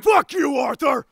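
mild angry outburst; ruining the moment. Acted. Character spoiling a tender reunion with Arthur, outburst. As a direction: blurt it out crudely. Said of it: "he's gonna ruin it by going".

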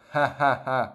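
hearty open ha ha ha laugh; open laugh demo. Shown as a demonstration. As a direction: show a plain open laugh. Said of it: "nó cười". (tiếng cười ha ha ha to, thoải mái)

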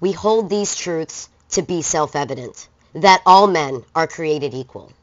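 solemn reading. Shown as a demonstration. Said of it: "And he says".

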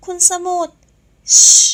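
high, loud protesting yelp; crying out. Acted. Saenrak crying out as Samut drags her off. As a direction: squeal his name in alarm. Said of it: "ร้องโวยวายออกมา".

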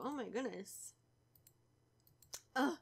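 ordinary talk

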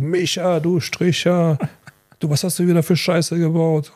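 hammed-up furious boss; mock angry yell. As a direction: act out the boss yelling at Micha. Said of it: "war so, so sauer auf ihn. Und er ruft".

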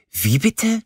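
high, scandalized question; can't believe he said that; outraged disbelief. Acted. Lilly, shocked by his teasing, asks in high outrage.

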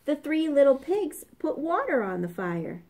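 ordinary delivery

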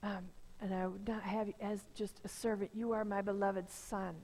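like a father embracing his lost son; tender father. Acted. Father welcomes son home, parable.

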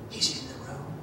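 very soft, low, fearful hush; retold hushed voice. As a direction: imitate someone hiding, barely audible. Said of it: "the lady's voice in the closet got quieter".

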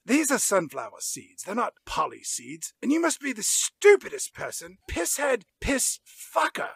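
a hint of Brian blurting rude names; Brian impression. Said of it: "spot-on impression of Justin Bartha as Brian".

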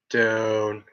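long, held low-register note; deep voice. Shown as a demonstration. Streamer demonstrating voice range to viewers, dropped and held. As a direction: drop down and hold the vowel level. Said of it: "it goes down".

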